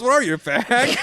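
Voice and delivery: a mock Mel Gibson line, giggling; laughing quote. Retelling the movie line to friends, laughing. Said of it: "Mel Gibson goes".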